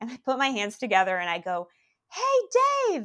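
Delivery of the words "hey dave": very high, really loud call-out. Retelling calling out to a man walking away from an interview, really loudly. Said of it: "like really loudly".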